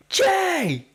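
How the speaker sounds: hammed-up R-Truth impression calling out; imitating R-Truth. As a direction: squeak the name out like a goofy wrestler. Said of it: "he goes".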